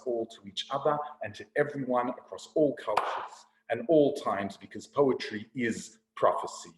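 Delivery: measured spoken-word recital; slam poetry. Acted. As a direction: perform it as a poem, pausing for weight. Performs a slam poem to audience.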